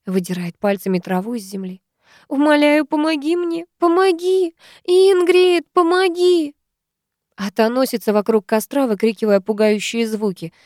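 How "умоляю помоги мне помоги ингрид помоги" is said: much higher, frantic begging; desperate pleading. Acted. Woman in labour begging Ingrid for help, frantic. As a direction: beg for help in panic.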